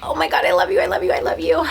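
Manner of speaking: high, giddy gushing; overcome with excitement. Real, not acted. Fan adoring the new popcorn bucket, giddily overcome. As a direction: gush it high, losing your composure. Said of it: "I need to get myself together".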